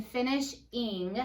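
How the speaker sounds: stretched syllable by syllable; slow, drawn-out word. Shown as a demonstration. Teacher sounding out slowly for young students. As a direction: say it slowly for the class. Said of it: "Let's say it again".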